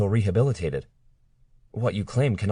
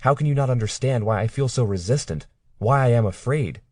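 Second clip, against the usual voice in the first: upset accusing; 5 semitones higher than usual. Acted. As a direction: pour out every grievance in a rising voice. Claire accuses her captor.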